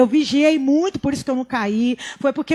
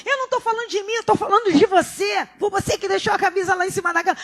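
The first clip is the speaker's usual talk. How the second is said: mock heated reply; 7 semitones higher, faster than usual. Her own heated reply retold.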